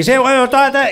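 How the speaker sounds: a partner echoing the cartoon Basque accent; exaggerated Basque accent. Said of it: "Y empezó Iker".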